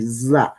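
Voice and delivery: "za" with a buzzing voiced z. Shown as a demonstration. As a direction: buzz the z at the start of "za". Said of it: "nosotros no decimos Z".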